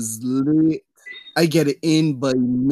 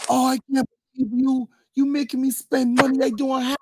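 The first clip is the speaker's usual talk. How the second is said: mock whiny girlfriend; 9 semitones higher than usual. Girlfriend voiced in story.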